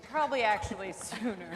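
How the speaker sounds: breaking up into loud, high laughter; laughing. Real, not acted. Teacher admitting she cried early, laughing hard. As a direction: lose the words to a real laugh.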